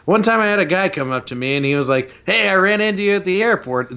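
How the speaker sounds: a light hint of Bruce Campbell's voice; barely shifted, mostly his own voice; Bruce Campbell impression. Podcaster doing a light Bruce Campbell impression. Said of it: "This is my Bruce Campbell impression".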